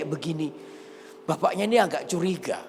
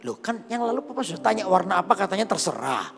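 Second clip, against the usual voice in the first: mock grumbling, pitched up in places; 4 semitones higher than usual. Child gripes to papa about the yellow dress, grumbling. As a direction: complain like a disappointed kid bickering with a parent. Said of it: "Mulailah dia ngomel sama".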